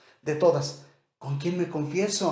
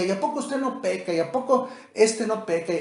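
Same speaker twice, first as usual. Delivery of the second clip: higher, fast skeptical retort; mock challenge; 5 semitones higher than usual. Doubter challenging the preacher: higher, fast mocking retort. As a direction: needle him like a doubter. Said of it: "Habrá alguien que diga".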